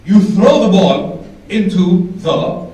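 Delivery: put-on Arab dad accent. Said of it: "He goes".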